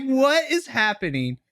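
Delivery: confused disbelief. Retold or imitated. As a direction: ask it like the scene makes no sense. Confused by Noam Dar's insults.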